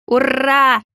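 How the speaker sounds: put-on a happy child's shout; boy cheering about sandwiches; joyful cheer. A narrator's reading. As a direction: cheer with delight. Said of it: "радостно воскликнул мальчишка".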